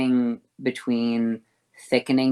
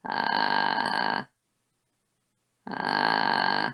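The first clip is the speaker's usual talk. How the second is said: deep fry on a held uh; low creaky fry; 4 dB quieter than usual. Shown as a demonstration. Teacher showing the opposite extreme in fry. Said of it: "if I go in the other direction".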